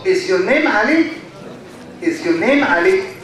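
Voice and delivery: "Ali" lifted at the end as a question; yes-or-no question tune. Shown as a demonstration. Teacher demonstrating yes-or-no question, rising on "Ali". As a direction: ask it, pitch climbing on "Ali". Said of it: "Yes or no question is low pattern".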